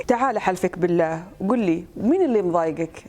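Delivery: Gulf Arabic plea; Saudi accent. Shown as a demonstration. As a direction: ask it in Saudi dialect. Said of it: "هذه سعودي".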